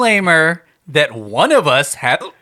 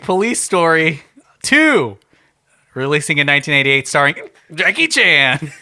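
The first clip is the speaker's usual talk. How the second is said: announcer voice; 2 semitones higher than usual. Acted. Hosts' show intro pitch.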